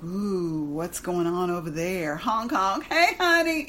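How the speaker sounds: hammed-up honking catcaller; silly clown. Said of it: "that addict wants to gape".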